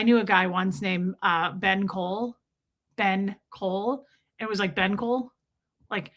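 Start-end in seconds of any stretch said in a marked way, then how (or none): 3.0-4.1 "Ben Cole" slowly, each word apart; slow, separated "Ben Cole"; two separate words. Shown as a demonstration. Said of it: "it sounds like one word". 4.7-5.3 "Ben Cole" run together as a single word; "Ben Cole" said as one quick unit; one-worded name. Shown as a demonstration. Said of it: "it's, like, one word".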